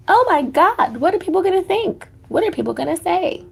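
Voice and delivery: mock panic. Relative hearing about a tattoo, hammed-up panic. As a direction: go up into a hammed-up horrified wail.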